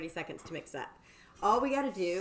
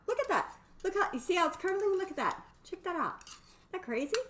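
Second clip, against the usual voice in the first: excited showing; 10 semitones higher than usual. Real, not acted. Showing viewers the curdling cream.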